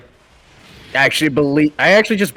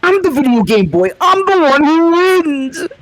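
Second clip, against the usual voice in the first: mock crying; 12 semitones higher than usual. Mocking a crying YouTuber.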